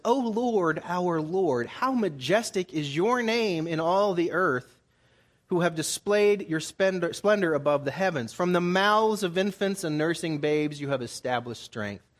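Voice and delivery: declaimed Bible verse, a little stately; scripture recitation. Acted. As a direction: proclaim the psalm with lifted voice. Reads a psalm aloud.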